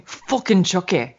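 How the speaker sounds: imitated little-girl tic, drawn out; Millie. Verbal tic copying the little girl, drawn out. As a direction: slowly echo a cussing small child. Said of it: "she says it just like the little girl".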